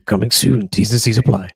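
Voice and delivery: loud trailer tagline with disclaimer; movie trailer voice. Pretend. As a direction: tack on the trailer small print. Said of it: "movie star advert voice".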